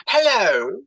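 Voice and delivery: mimicked mum's northern phone hello; real northern mum answering the phone; northern accent. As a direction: imitate a broad northern telephone greeting. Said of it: "You know, real northern accent".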